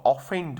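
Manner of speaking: ऑफेंड with a full "off" at the start; common mispronunciation. Shown as a demonstration. Teacher shows an untrained guess, mispronouncing ऑफेंड with full "off". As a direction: say ऑफेंड as "off-end". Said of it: "जिसका pronunciation नहीं देखा हुआ है".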